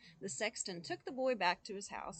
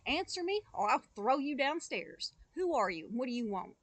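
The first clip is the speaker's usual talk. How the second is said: loud, higher threat; shouting again; 4 semitones higher, 7 dB louder than usual. Acted. Boy threatening the white figure, loud and high. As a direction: bellow the warning up the stairs. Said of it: "The boy shouted again".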